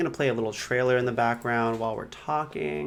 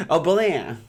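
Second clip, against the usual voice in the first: vocal sound effect; 6 semitones higher, 4 dB louder than usual. Pretend. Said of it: "my transition sound effect".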